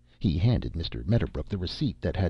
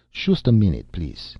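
put-on German accent=13; 5 dB louder than usual. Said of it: "he continued".

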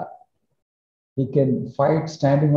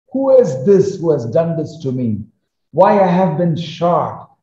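anguished cry; 4 semitones higher than usual. Retold or imitated. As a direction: cry out in pain and disbelief, voice pitched up. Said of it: "a human voice that screamed out and said".

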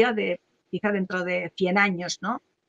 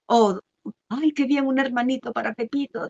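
cheerful relative; 3 semitones higher than usual. Retold or imitated. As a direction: coo it like an aunt pleased for the family. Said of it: "o si no puede ocurrir".

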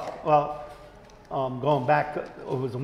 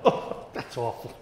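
laughing disgust; 9 semitones higher than usual. Retold or imitated. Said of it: "I'm like".

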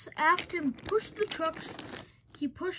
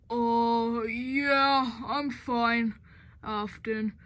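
raspy voice; 3 semitones lower, 3 dB louder, much slower than usual. Acted. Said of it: "in her graggly voice".

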